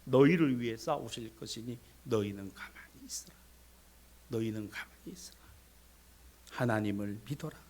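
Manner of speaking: low, restrained, steadying voice; steady the frightened crowd, low and soft; solemn prophet's reassurance. Acted. Moses telling the frightened people to trust God, low solemn reassurance. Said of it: "그런데 모세 뭐라 그래요?".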